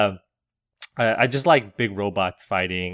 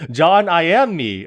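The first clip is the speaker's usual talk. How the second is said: Yoda voice; 7 semitones higher, 7 dB louder than usual. Pretend. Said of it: "Do your best Yoda right now".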